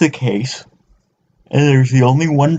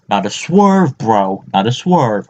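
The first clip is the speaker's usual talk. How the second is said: bro impression; slower than usual. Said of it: "you figured out who I was doing there".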